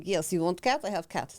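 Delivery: lightly imitated Lucan accent. Cat seller greeting a buyer in a put-on Lucan accent. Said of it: "That's my Lucan accent".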